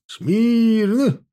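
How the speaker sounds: shouting drill sergeant. A narrator's reading. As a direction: snap the company to attention. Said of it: "рявкнул". (громкая строевая команда)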